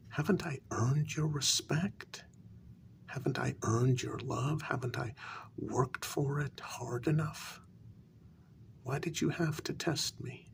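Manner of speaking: wounded appeal, pitch lifting on the questions; hurt pleading. Acted. Servant confronting the queen over a test, hurt pleading. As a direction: plead for recognition, voice rising.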